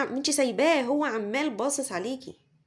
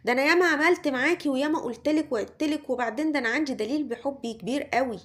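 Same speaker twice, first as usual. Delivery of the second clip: reproachful complaint; 3 semitones higher than usual. Retold or imitated. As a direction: rattle off his grievance, imitating him. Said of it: "بيقولك".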